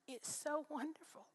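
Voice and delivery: breathy, choked-up whisper of relief; tearful whisper. Real, not acted. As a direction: whisper it through tears, slowly. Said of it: "I began to cry again".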